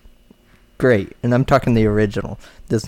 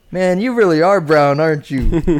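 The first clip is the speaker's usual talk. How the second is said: mock-amazed jab, higher pitch; teasing; 4 semitones higher, 3 dB louder than usual. Coworker teasing his friend at work, teasing.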